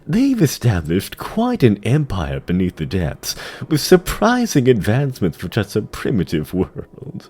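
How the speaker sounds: lightly voiced, measured demon courtier; sly dreadlord. Tichondrius reporting to the Lich King, lightly voiced sly demon. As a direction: purr it with mocking deference.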